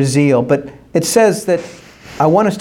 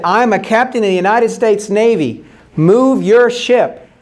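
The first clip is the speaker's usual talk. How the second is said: higher, mildly indignant order; insistent captain; 4 semitones higher than usual. Retold or imitated. Navy captain ordering the light to move, insistent.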